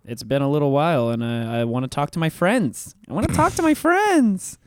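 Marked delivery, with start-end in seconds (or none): 1.6-2.9 plain. Pretend. Repeated in put-on voice. 3.1-4.6 high silly voice. Pretend. Repeated in put-on voice.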